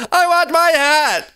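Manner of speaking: high-pitched demanding yell; acted yell. A narrator's reading. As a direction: yell it like a frustrated sister. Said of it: "she yelled".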